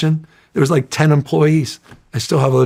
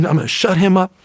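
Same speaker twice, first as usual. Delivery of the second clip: put-on higher-pitched, sly old-school politician voice; Willie Brown impression; 6 semitones higher than usual. The mayor vowing to silence Newsom, in imitated voice. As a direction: mimic the veteran mayor's threat with relish. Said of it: "And he talks like this".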